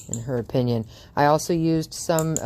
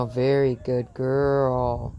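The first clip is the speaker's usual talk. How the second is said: praising the dog; much slower than usual. Real, not acted.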